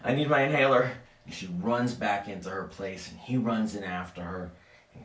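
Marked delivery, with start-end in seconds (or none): 0.0-0.9 high, loud wheezy gasp; wheezing. Acted. Woman begging the cop for her inhaler, wheezing. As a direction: force it out through an acted asthma attack. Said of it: "She starts to wheeze".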